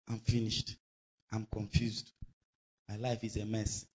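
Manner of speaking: low, soft, lightly acted gloom; mock defeatist. Preacher quotes criminal statements against faith, mock defeatist. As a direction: imitate someone giving up, quietly. Voices a defeated believer's complaints.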